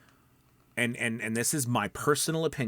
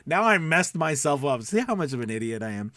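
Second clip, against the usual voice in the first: self-mocking laugh; 3 semitones higher, 4 dB louder than usual. Real, not acted. Laughs at own slip.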